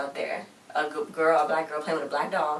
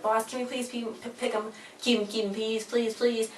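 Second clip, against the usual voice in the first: higher, hurried imitation of begging; mock-beg in a raised voice; imitating someone pleading please; 5 semitones higher, 4 dB quieter than usual. Acting out the dog begging the guy.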